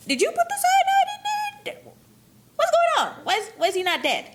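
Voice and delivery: high, frantic and loud, voice shooting way up; panicked disbelief. Retold or imitated. Conspirators asking each other why he's not dead, in high panic. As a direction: squeal it like the poison plan just failed in front of you.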